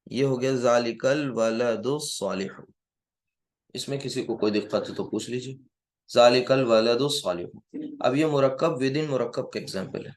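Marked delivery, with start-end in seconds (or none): 0.5-2.6 slow dictation. Shown as a demonstration. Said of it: "teacher reads out the answer". 6.1-7.8 slow, emphatic repeat. Shown as a demonstration. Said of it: "teacher repeats the phrase".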